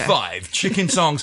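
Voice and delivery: slow, drawn-out radio DJ delivery. Pretend. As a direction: announce it like a late-night DJ. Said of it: "was that your DJ voice".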